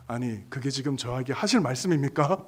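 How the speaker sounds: retold bristling objection; restrained anger. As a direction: protest politely but visibly cross. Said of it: "표정으로 화를 내면서".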